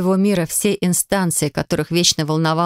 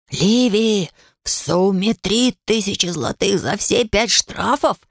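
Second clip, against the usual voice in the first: shrieking; 2 semitones higher, slower than usual. A narrator's reading. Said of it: "завизжал Гарри".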